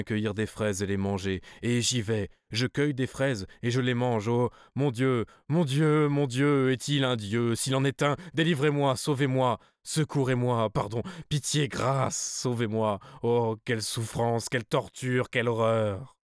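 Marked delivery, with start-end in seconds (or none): 4.3-16.2 frantic pleading, rising to higher, louder cries; terrified plea to heaven; desperate prayer. Acted. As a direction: beg God to save you in panic. Narrator begs God for deliverance.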